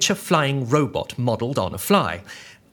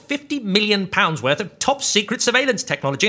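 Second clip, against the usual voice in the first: panicky; 5 semitones higher than usual. Acted. Panicked rant.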